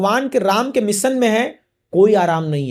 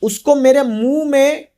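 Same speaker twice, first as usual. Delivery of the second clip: demoness's decree; 3 semitones higher, slower than usual. Acted. Demoness blocking Hanuman's path over the sea, slow decree. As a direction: lay down the rule in measured, separated phrases. Demoness announces her rule to travellers.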